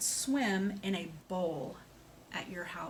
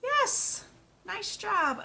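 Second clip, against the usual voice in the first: much higher, bright cheer for a right answer; excited praise; 12 semitones higher, 4 dB louder, much slower than usual. Real, not acted.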